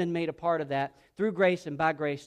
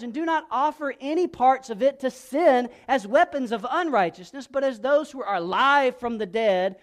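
raised, ringing scripture reading; forceful preaching; 6 semitones higher, 7 dB louder than usual. Acted. Preacher reads Paul's charge to the congregation, forceful. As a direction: drive each command home to the congregation.

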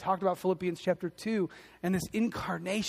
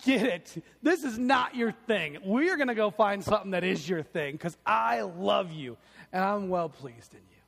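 kind dad. Retold or imitated. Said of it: "that dad just said".

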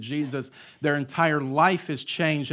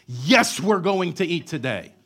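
loud, raised-pitch yes; emphatic mock exasperation; 3 semitones higher, 6 dB louder than usual. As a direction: answer as if it's blindingly obvious. Emphatic answer to absurd question.

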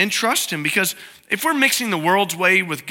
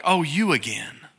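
grudging sigh; 3 semitones lower, 3 dB quieter than usual. Retold or imitated. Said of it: "He doesn't, like, withhold it".

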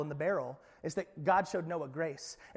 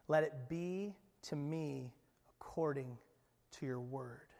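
hushed, lower whisper of total trust; whispered surrender; 4 semitones lower, 8 dB quieter than usual. Acted. Mary whispers her yes to the angel, hushed. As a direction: breathe the words out like a quiet prayer. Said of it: "Do you hear Mary's response in this?".

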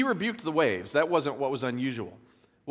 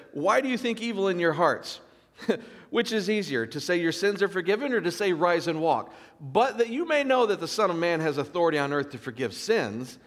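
animated retelling; 5 semitones higher than usual. Retold or imitated. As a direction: press the question on the doubters. Preacher voicing Jesus' challenge.

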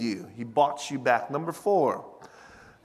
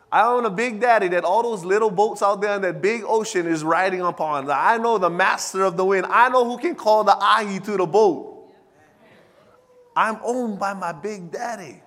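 loud, high, rising declaration; full-force preaching; 4 semitones higher, 6 dB louder than usual. Acted. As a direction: shout the promise to the church.

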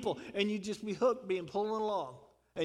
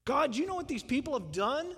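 grumbling Jonah. Retold or imitated. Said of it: "But Jonah goes".

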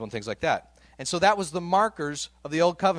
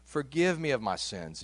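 softer, measured plea to God; understated crying out; 4 dB quieter than usual. Retold or imitated. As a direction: quietly retell a prayer for mercy. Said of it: "I cried out to God".

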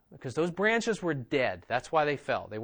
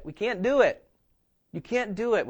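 normal talking voice

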